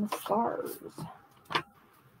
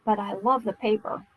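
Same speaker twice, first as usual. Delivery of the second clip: talking while chewing gum. Real, not acted. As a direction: chew gum as you talk. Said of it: "trying to talk and chew gum at the same time".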